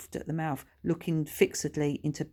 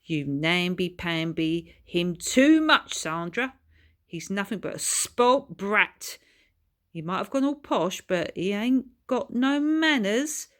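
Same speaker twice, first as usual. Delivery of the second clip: growled; 4 semitones higher, 5 dB louder than usual. Acted. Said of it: "he growled".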